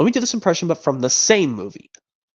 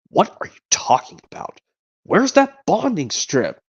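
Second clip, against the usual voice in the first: puzzled Buzz; 5 semitones higher than usual. Retold or imitated. A hint of Buzz ignoring Woody's warning. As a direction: brush off the threat, distracted. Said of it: "Buzz asks him".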